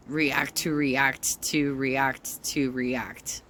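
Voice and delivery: slow, sing-song mockery; mocking drawl. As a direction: drag it out sarcastically. Mocking endless reaction videos.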